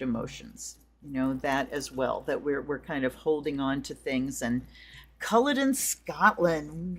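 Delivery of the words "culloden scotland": bad Scottish accent. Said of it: "you're gonna get to hear some bad Scottish accents".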